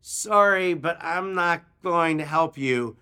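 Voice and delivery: a touch of sheepish regret; mock apologetic. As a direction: put on a mild apology while declining.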